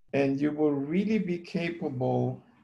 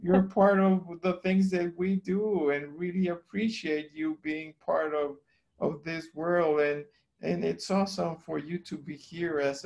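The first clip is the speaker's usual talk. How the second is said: kind and slow; 3 semitones higher than usual. Retold or imitated. Husband coaxing the wife's broken computer: gentle, kind pleading. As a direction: sweet-talk a broken machine into working. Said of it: "I started to talk very slowly, kind".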